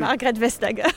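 a deliberately bad French accent on Margaret Vestager; horrible French accent. Shown as a demonstration. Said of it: "so I'm gonna say it with a horrible French accent".

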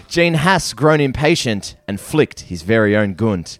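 poem recital. Acted. Reads his comic ode.

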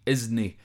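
isn't said as isnae, with no t; Scots isnae. Shown as a demonstration. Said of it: "I S N A E".

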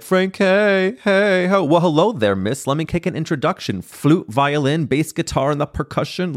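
high, playful movie-line impression that fades down; quoting the movie. Kids quoting Sister Act two lines, lightly voiced. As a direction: rattle off the intro like a hyped kid quoting a film. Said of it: "they would do all of these funny quotes".

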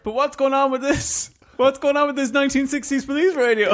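high-pitched, hammed-up disbelief; mock bafflement. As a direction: play the deputy baffled by his radio. Acts out deputy baffled by radio.

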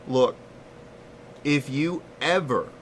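slow, deliberate retold threat; imitating a seething friend's measured warning; mad friend. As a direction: spell out the warning word by word, with long pauses. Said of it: "He is so mad".

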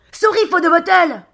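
high, loud, slow English; shouted apology. Acted. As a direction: holler sorry across the deck. Calling apology to captain on boat.

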